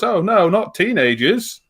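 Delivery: slow, high dismayed robot; whiny robot. Retold or imitated. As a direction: drawl it like a fed-up robot. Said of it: "the robot goes".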